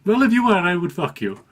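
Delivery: high, loud put-on Indian accent. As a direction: imitate an insistent man in an Indian accent. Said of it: "I'm gonna do an accent".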